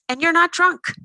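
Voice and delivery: loud, high retort; fire back. Acted. Exposed thief fires back at the fake drunk, loud and high. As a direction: snap it right back at him. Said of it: "I fire back".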